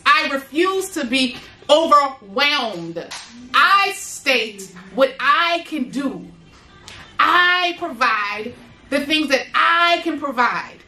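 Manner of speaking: slow, deliberate declarations; slow affirmation. Shown as a demonstration. Leading her viewers in affirmations, slow and deliberate. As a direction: speak each vow slowly for them to repeat. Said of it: "and say this with me".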